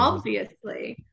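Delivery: put-on slow, drawn-out Mean Girls American; stereotyped American teen accent. Shown as a demonstration. British guest doing key American phrases from films, American accent. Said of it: "like, Mean Girls".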